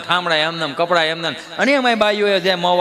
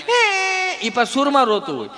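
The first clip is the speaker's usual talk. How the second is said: put-on high crying child; child wailing; 12 semitones higher, much slower than usual. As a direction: wail like a spoilt kid. Child wails at shop.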